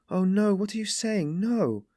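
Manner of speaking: high-pitched dismayed protest. A narrator's reading. Sonia denies that she was beaten, dismayed. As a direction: cry out the denial, voice leaping up. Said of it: "looked at him almost with dismay".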